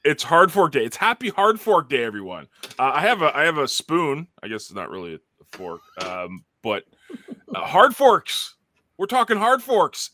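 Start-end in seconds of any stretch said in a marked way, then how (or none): 0.0-2.5 loud, high hyped-up announcement; excited announcer. Acted. Hyped show intro announcement. 7.6-10.1 excited announcer. Acted. Hyped intro of topic.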